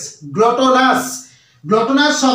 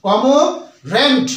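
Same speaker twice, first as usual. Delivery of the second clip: কমোরেন্ট said slowly and clearly with silent r; slow model pronunciation; much slower than usual. Shown as a demonstration. Teacher repeating the word slowly for learners. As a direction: draw out কমোরেন্ট for students to copy. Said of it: "তাহলে উচ্চারণটা হলো".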